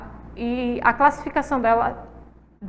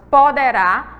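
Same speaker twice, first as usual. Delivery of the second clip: poderá said loudly with weight on final RÁ; stress on last syllable; 6 dB louder than usual. Shown as a demonstration. Teacher pointing out an accented word, poderá stressed at the end. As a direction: land firmly on the RÁ of poderá. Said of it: "é a sílaba mais forte".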